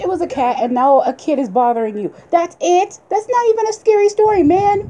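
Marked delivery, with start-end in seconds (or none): 2.3-4.9 incredulous. Real, not acted. Incredulous teasing.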